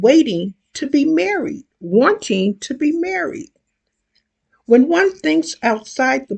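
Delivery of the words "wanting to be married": breathy whispered echo. A narrator's reading. Repeated phrase, second take whispered.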